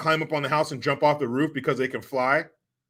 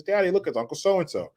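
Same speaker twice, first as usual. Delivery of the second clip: put-on little girl; 6 semitones higher than usual. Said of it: "She says".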